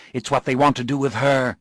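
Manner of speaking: a frightened man insisting; agitated Morgan. Acted. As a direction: Morgan begging for help. Morgan pleads.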